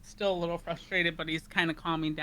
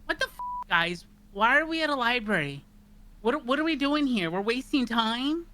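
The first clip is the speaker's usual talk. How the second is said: exasperated, raised and higher; irritated character yelling at friends; frustrated outburst; 4 semitones higher, 4 dB louder than usual. Acted. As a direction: vent the frustration at the group. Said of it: "and he just goes".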